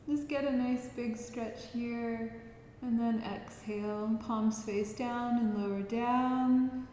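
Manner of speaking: gentle, unhurried movement cues; guided relaxation. Acted. Yoga teacher guiding listeners through stretches, calm guiding voice. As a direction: lead them softly from breath to breath.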